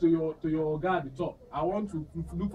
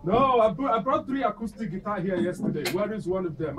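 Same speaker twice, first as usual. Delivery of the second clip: yelling across the room; 4 semitones higher, 5 dB louder than usual. Acted. Demands the missing guitar.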